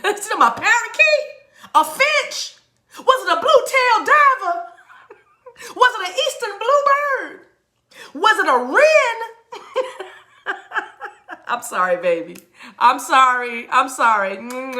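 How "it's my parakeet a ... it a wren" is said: high-pitched questions through giggles; laughing incredulity. Real, not acted. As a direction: squeak out each guess, cracking up. Laughing over viewer's bird guesses.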